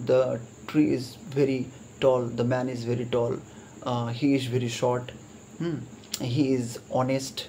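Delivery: slow, deliberate reading of the examples, word by word; teacher dictating example sentences; slow dictation reading. Shown as a demonstration. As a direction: read each sentence out slowly to the class. Reads example sentences aloud.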